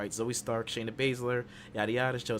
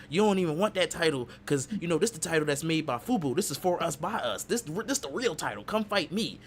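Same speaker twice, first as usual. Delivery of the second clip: lightly acted promo, pitched up; mock challenge, rising higher to the end; wrestler's promo challenge; 5 semitones higher than usual. Podcaster retelling a wrestler's challenge to Cody, lightly acted promo voice. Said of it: "and he was saying".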